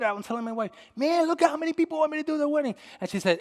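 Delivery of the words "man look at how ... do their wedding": fast, high-pitched, self-satisfied gush; rushed, higher, feeling really good; pleased boasting. Retold or imitated. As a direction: imitate yourself bragging to your wife. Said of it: "just when I was feeling really good".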